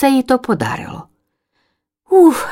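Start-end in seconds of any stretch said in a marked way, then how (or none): 2.1-2.5 high puffing "uf" of relief; relieved sigh. Acted. Chick Linivka lands and sighs with relief. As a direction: let out a breath after landing. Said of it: "здихла".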